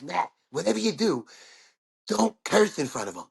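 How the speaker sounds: lightly voiced little guy with a lisp; a hint of a lisping producer's warning. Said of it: "little Jewish guy with a lisp".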